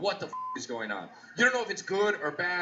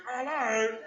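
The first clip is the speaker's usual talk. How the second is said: British wife hello; 6 semitones higher than usual. Retold or imitated. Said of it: "Then their wife jolts awake".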